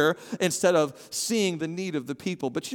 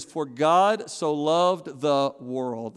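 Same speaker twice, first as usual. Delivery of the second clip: scripture reading; much slower than usual. Acted.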